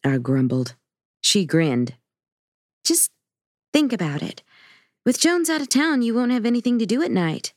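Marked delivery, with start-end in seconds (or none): 2.9-7.5 put-on higher, playful teenage girl voice; teasing teen daughter. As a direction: needle dad with a grin.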